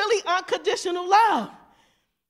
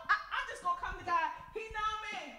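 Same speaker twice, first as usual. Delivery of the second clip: very soft acted excuse; mumbled excuse; 2 semitones higher, 15 dB quieter than usual. Unrepentant believer excusing himself, very quiet mock mumble. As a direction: toss it off under your voice.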